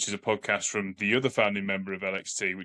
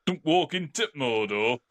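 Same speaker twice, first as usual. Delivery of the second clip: mock Northern English accent, slow and higher; Sean Bean; 4 semitones higher, slower than usual. Co-host quoting the actor's film line, mock Yorkshire accent. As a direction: slowly intone it in a put-on Yorkshire accent. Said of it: "anything with Sean Bonn".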